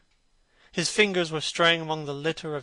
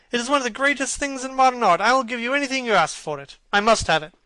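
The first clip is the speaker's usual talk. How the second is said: eager; 8 semitones higher, 7 dB louder, faster than usual. Acted. Lord Henry eager to buy portrait.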